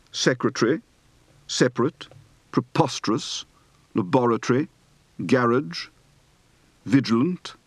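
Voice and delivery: British word list with reduced syllables, "laboratory" stressed on BOR; British accent, list intonation; British pronunciation. Shown as a demonstration. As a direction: say each word in crisp British RP, "garage" as GARR-idge.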